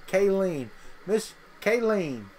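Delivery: southern drawl, name drawn out long; lingering southern pronunciation of Kayleen; southern accent. Real, not acted. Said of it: "say it in a southern accent".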